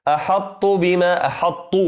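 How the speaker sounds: "أحط" with thin, light ط; wrong pronunciation. Shown as a demonstration. Teacher imitating a common recitation error. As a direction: mispronounce "أحط" without emphasis. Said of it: "وهذا من الخطأ".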